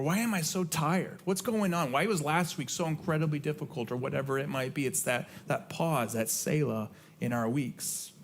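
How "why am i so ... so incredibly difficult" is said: higher, puzzled and weary; a tired, questioning prayer. Pretend. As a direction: ask God what's wrong, half pleading.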